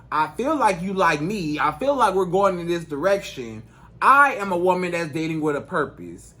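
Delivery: composed, deliberate and serious; calm voice. Shown as a demonstration. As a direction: lay it out firmly without raising your voice. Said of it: "say it to him in a calm voice, just like this".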